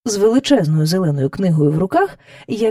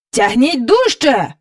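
a slow, slightly louder order; mild shout; 4 semitones higher, 4 dB louder, slower than usual. Acted. King shouts to the courtiers pulling, mildly louder. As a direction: urge them on. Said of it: "крикнув король".

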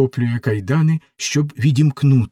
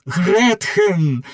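calling out Гретхен! a bit louder and higher; loudly; 8 semitones higher than usual. Acted. Faust calls out to Gretchen in her cell, louder. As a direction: call Гретхен! across the prison, reaching for her. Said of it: "Фауст голосно".

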